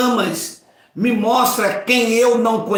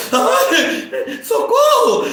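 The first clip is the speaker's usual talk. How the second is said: high, louder hammed-up scream for help; mock cry for help; 12 semitones higher, 3 dB louder, much slower than usual. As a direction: play the frightened husband for laughs, yelling. (grito de socorro fingido e exagerado, bem agudo)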